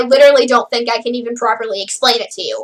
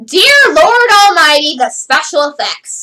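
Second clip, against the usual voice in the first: exasperated; 4 dB louder than usual. Pretend. Mock exasperation.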